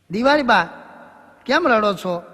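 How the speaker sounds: calling out. Acted. Teacher asks crying Diwali ba why, loud call. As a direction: call out to the old woman. Neighbour calls to crying old woman.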